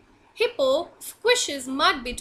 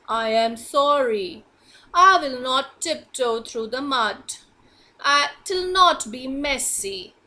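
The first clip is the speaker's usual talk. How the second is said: hippo apologising to frog, lightly lowered voice; big hippo apologising; 3 dB louder than usual. Acted.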